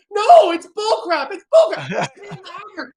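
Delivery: high, slow laughing yell; laughing defiant shout. Retold or imitated. Crowd rejecting the belief, laughing shout. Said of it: "crowd answers coach".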